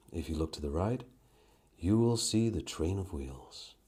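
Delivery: lightly put-on airline pilot announcement. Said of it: "I could try that".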